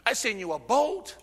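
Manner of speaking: God's incredulous rebuke, rising high and loud; scolding the man who missed every rescue, high and loud; exasperated God. Retold or imitated. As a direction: build to an outraged shout of disbelief.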